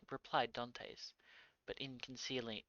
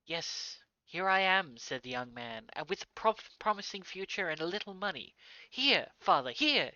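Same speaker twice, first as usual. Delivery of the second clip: eager son; 6 semitones higher, 10 dB louder than usual. Acted. Son returns, presses money on father.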